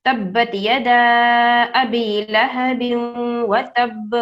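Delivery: تبت یدا ابی لہب وتب recited slowly, stopping on وتب; slow tilawat with a silent end; slow recitation. Shown as a demonstration. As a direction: recite slowly and stop on the last letter. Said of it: "اس کو کیسے پڑھیں گے".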